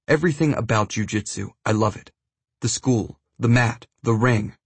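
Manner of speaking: put-on light Brazilian accent; a hint of a Brazilian accent. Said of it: "in his thick Brazilian accent".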